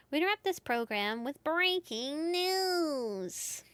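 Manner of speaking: slow, formal newscaster read; news reporter voice. Acted. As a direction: announce it like breaking news on TV. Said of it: "I should have done the news reporter voice".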